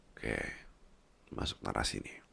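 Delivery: whispered aside. Acted. Whispering to partner before the story begins. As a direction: slip it in as a whisper.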